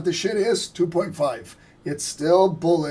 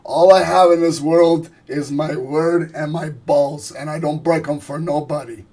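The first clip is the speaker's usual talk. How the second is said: Tony Montana impression; 6 dB louder than usual. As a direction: lean hard into every word like a proud mobster. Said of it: "you guys want me to do some Tony Montana impersonations".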